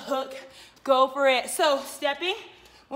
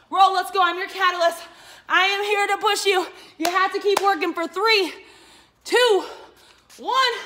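loud, rising countdown shout; shouting orders over battle; 3 semitones higher, 4 dB louder than usual. Real, not acted. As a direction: drive them through the last seconds. Coach counting down the burnout.

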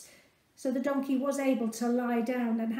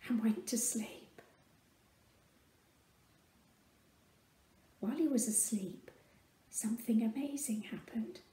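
hushed storytelling whisper; soft whispered wonder; 3 semitones lower, 7 dB quieter than usual. A narrator's reading. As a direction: hush as the donkey sleeps. Whispered narration.

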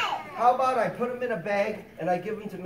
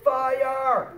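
higher, drawn-out call of FIRE; demonstrated yell; 5 semitones higher, 4 dB louder than usual. Shown as a demonstration. Fireman showing kids how to warn of fire, demonstrated yell. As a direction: call out a mild alarm, held long. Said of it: "If you see a fire, yell".

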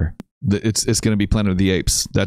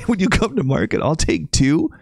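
imitating the guy; 9 semitones higher than usual.

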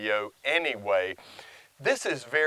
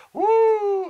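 excited whoop; 7 dB louder than usual. Retold or imitated. Excited about raw hamburger feeding.

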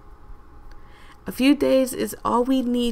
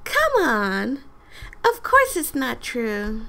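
a lightly higher put-on lady voice; high-pitched lady voice; 3 semitones higher than usual. Voicing the game lady for Danny, lightly higher pitched. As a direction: nudge the voice up a little for the game lady. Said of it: "she has an high-pitched voice like this".

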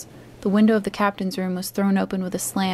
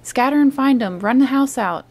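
much higher and louder repeated order; 5 semitones higher, 6 dB louder than usual. A narrator's reading. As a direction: hammer the order home. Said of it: "reiterated Pew".

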